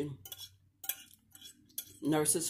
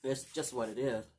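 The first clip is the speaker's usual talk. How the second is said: talking while licking fingers; words around sucking fingers; 2 semitones lower, 3 dB quieter than usual. Real, not acted. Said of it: "I'm sorry I'm licking my fingers".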